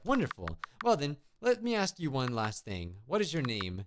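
a hint of a polite witch; lightly voiced witch. Witch greets the little scarecrow boy, lightly voiced, polite. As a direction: lightly act a friendly, musing witch.

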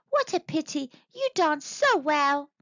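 high, regretful monkey voice; mock sadness. A narrator's reading. Monkey tricking the dancing monster, feigning sadness. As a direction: lament it in a high voice. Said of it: "she said sadly".

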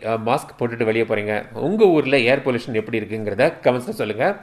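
speaking behind a mask; through a face mask. Real, not acted. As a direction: mouth covered by fabric. Seen 3: Dark fabric mask covers his nose and mouth throughout the labelled words.

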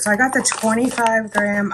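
breathless from carrying groceries; out of breath. Real, not acted. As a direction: talk between short breaths. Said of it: "I'm out of breath".

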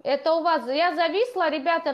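ordinary delivery

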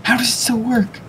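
surprised. Real, not acted. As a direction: ask it in disbelief. Bewildered question asked aloud.

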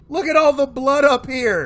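high, loud shocked outburst. Real, not acted. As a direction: react with sudden shock. Shocked by the blood.

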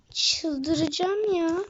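drawn-out loud frustration. Real, not acted. Gamer losing his match, slow fed-up outburst. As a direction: let it out slowly, fed up.

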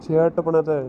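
loud warning to stop; loud scolding. Real, not acted. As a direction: tell her off firmly. Scolds wife over the money. (உரத்த கண்டிப்பு)

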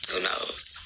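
soft whispered shrug. Real, not acted. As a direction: murmur it to yourself. Repeated as whispered aside.

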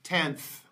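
"tenth" said alone with an audible final th; final th demo. Shown as a demonstration. Teacher models next word for learners, "tenth" with final th. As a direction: model "tenth", letting the last th hiss out. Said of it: "see it at the end of the word".

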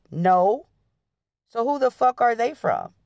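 put-on jealous boyfriend yelling at her; yelled. A narrator's reading. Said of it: "Sean yelled".

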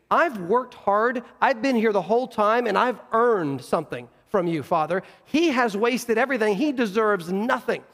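aggrieved, emphatic protest; mildly furious son pleading his case; indignant older brother. Acted. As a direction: press each grievance with restrained anger. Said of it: "He is furious".

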